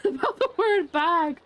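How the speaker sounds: slow, giggly and helpless; laughing. Real, not acted. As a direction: crack up while dragging out the phrase. Cracking up over mispronounced word.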